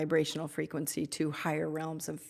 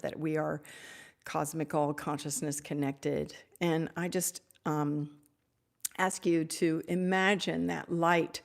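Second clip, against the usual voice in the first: guided blessing meditation. Acted. Leads a healing blessing meditation.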